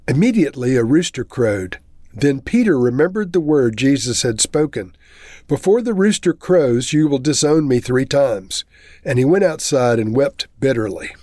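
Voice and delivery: measured, solemn Bible reading with voiced quotes; scripture reading. Pastor reading Matthew aloud to the church, solemn scripture reading. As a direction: read the Passion story to the congregation. Reads the Gospel passage aloud.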